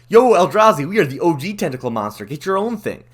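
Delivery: loud, high call, hammed-up tough-guy brag; mock octopus taunt. Octopuses taunting the Eldrazi, a loud, high hammed-up brag. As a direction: shout a playful taunt at rival monsters. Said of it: "they're all like".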